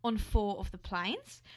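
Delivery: an attempted Aussie accent; put-on Australian accent. Co-host starting the airline story, put-on Australian accent. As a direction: present the story as a playful Australian. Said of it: "You're doing well".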